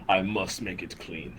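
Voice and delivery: slow, droning repeated mantra; Mister Clean mantra. Acted. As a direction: chant it slowly like a fixated cleaning robot. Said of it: "Mister Clean ... saying".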